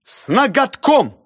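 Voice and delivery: high, loud, slow title; declaiming. Acted. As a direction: proclaim it proudly. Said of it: "сказал".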